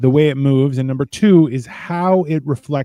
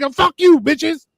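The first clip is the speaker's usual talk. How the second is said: mock taunt; 10 semitones higher than usual. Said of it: "And then he's like".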